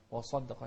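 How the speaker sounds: وصدق with a full, dark ص; heavy saad. Shown as a demonstration. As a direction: darken the ص in وصدق. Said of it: "شوف الصاد".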